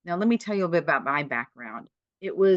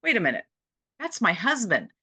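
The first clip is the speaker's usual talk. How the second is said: retold mother, rising higher and louder into a surprised realization; mother's sudden recognition; 8 semitones higher, 4 dB louder than usual. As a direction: voice the mother as it dawns on her, with a lift. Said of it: "and she said".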